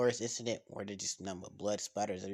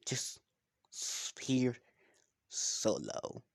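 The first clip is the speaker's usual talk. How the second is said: whispered solo; much slower than usual. Acted. Lone wolf boasting.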